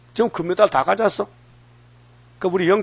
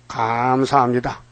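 slow, low, drawn-out thanks; acted calm thanks; 4 semitones lower, slower than usual. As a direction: answer insults with unruffled, stretched-out gratitude. 욕먹고도 감사하는 대답 시연. (느긋하고 낮게 늘여 말하는 감사)

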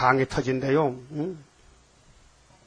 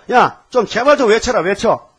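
pleading command; 4 semitones higher, 4 dB louder than usual. Acted. Jesus pleads with believers.

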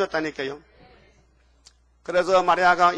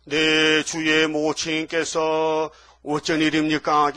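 느린 할머니 인사; much slower than usual. Acted. 엘리사벳이 공손히 인사함.

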